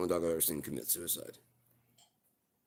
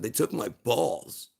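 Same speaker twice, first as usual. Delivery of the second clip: higher, louder, slow wounded complaint; slow aggrieved dog; 7 semitones higher, 9 dB louder, much slower than usual. Acted. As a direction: drag it out like a hurt pet.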